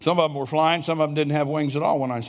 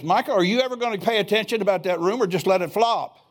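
higher, mildly annoyed scolding voice; a touch of exasperated impatience; ticked-off rebuke; 6 semitones higher than usual. Retold or imitated. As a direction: imitate the Lord gently calling him out. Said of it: "he said it like this".

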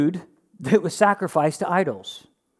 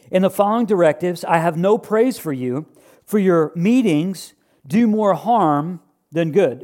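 raised, earnest reading of the letter; scripture reading. Acted. Preacher reading Paul's rebuke to the church, earnest. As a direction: read Paul's words out to the church.

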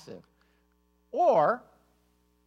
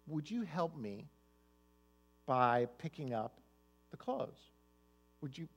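much softer, tender plea; gentle request; 2 semitones lower, 5 dB quieter than usual. Retold or imitated. Wife gently asking husband to pick up clothes, tender and soft. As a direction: ask him kindly and softly. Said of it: "Something like".

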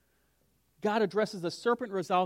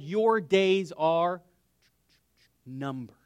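drawn out, then dropping to a whisper on numbered; ominous slow verdict; 2 semitones lower, much slower than usual. Acted. God telling the serpent its end, slow and ominous. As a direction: let it hang, then whisper the doom.

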